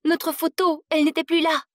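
high, loud alarmed cry; panicked dismay. Acted. Handcuffed girl realizes the photo is lost, panicked high cry. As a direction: blurt it out as panic hits.

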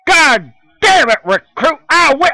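loud high angry bark; sergeant yelling. Acted. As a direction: yell like a drill sergeant. Drill sergeant yelling at recruit.

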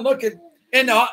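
ordinary talk, nothing marked

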